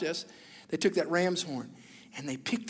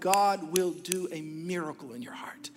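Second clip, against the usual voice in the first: earnest whisper. Real, not acted. Altar call to congregation.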